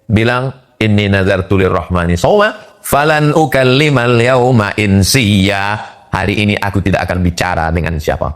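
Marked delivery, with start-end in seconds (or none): 0.8-5.8 Quran recitation. Acted. (tilawah Quran yang lambat dan bernada)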